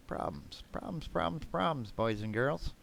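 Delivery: put-on sing-song teasing children's host; kids show host. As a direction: croon it like a cartoon host to kids.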